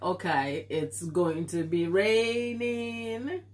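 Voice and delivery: lightly voiced grumpy old woman, slow and sour; a hint of a moody old lady turning on you. Streamer compares the weather to a grumpy old woman, mildly mocking. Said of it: "like a grumpy old woman".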